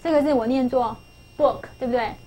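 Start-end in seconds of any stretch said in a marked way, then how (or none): 1.4-1.6 book with a short, lax oo; book, short vowel before a final k; English word pronunciation. Shown as a demonstration. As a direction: say book clearly as a model word. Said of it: "这个字念作".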